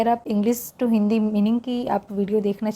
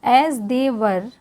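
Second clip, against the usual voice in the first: slow, careful read-aloud for learners; English read-aloud for Hindi-speaking students, slow; much slower than usual. Shown as a demonstration. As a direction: read it slowly so learners can follow along.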